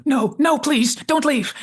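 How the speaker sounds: high, loud mock pleading; hammed-up panic, begging them back; desperate cry after them. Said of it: "he cries out after them".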